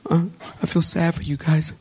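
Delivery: half-hearted, quick little pretend sniffle; badly faked token sadness, tossed off fast; mock sniffling. Preacher mimicking someone shedding a few tears, mock sniffly. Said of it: "sniffling like".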